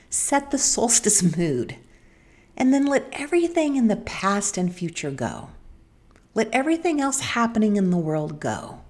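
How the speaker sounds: unhurried meditative lead-in with long pauses; calming letting-go guidance. Real, not acted. Host guiding listeners to let everything go, calming and meditative. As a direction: let each phrase fall away gently.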